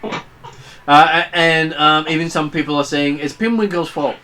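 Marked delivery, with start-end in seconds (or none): 3.2-4.1 crowd voice. Acted. GM voicing crowd member.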